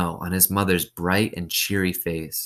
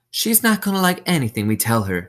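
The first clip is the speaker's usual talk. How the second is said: higher, stress on not; wearily dismissive warden, raised; 9 semitones higher, 4 dB louder than usual. A narrator's reading. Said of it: "said the warden".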